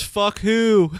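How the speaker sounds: high, punchy mock yell; mock shout. Guy under the car hates the band, mock shouting. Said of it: "He shouts".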